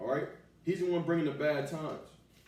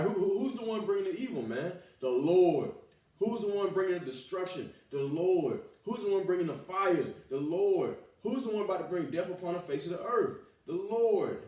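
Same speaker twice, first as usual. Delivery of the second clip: raised, insistent question-and-answer; emphatic preaching; 5 semitones higher, 3 dB louder than usual. Real, not acted. Preacher crediting the Lord with bringing evil, emphatic preaching. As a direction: drive each question up, then land the answer hard.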